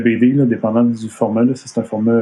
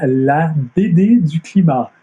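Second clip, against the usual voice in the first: careful international French, higher and drawn out slowly; international French accent; 4 semitones higher, slower than usual. Shown as a demonstration. Showing how the pun should sound, in international French. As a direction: put on a proper international French accent, pitched up. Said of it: "avec un bon accent français international".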